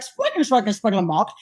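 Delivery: mock German gibberish; imitating German. Actress mimicking co-star showing off, mock German. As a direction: lightly imitate someone speaking German. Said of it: "he'll speak German".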